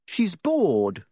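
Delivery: put-on high, boyish pleading voice; a boy explaining himself; Harry's voice. A narrator's reading. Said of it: "he said".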